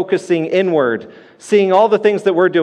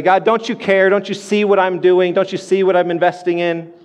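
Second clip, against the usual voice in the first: crying out to God; 2 semitones higher than usual. Retold or imitated. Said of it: "Do we ever cry out to God and say".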